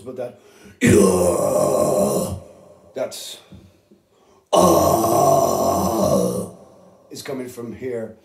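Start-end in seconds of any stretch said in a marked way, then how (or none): 0.8-6.5 low throaty growl; death metal growl. Shown as a demonstration. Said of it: "death metal vocals".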